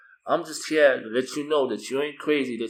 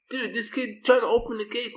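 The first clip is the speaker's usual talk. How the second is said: high, disbelieving aside; 11 semitones higher than usual. Retold or imitated. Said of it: "and I'm like".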